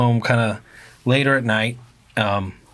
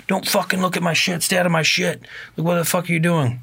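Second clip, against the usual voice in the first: mad stranger; 7 semitones higher than usual. Retold or imitated. Bike guy warns couple off his stuff, imitated mad. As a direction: warn them off, mock-mad. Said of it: "This guy seems pretty mad".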